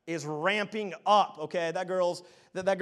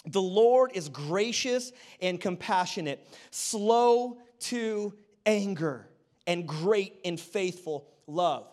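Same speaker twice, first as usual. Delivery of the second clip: slow, weighty scripture read, drawing out slow to anger; measured reading of a psalm; slower than usual. Acted. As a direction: read the verse deliberately. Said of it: "The Bible says in Psalm one forty-five".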